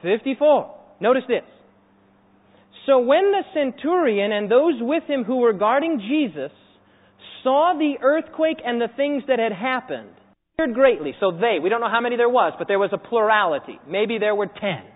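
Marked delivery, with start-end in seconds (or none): 2.8-11.1 slow, weighty public reading; measured preacher's reading; scripture reading. Acted. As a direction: read the verse out deliberately to a congregation. Reads scripture aloud.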